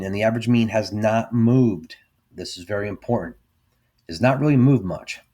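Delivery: talking around a cigar; words round a cigar in the mouth. Real, not acted. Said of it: "I'm talking so much. My cigar keeps going out".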